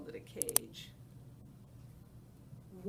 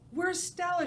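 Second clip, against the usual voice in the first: gulping for air; 9 semitones higher, 9 dB louder than usual. Acted. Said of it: "gulping for air".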